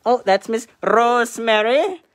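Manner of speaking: high, loud mock-British introduction; attempted British accent. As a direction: announce the cat in over-the-top British. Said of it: "do it in a British accent".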